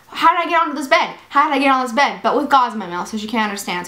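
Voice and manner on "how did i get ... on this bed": retold pestering, quick and higher at first; mock-insistent repeated question; insistent repeating. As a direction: act out asking over and over. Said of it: "I'm, like, very insistent".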